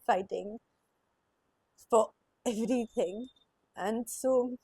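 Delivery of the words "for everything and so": crying. Real, not acted. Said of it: "sorry, I'm crying".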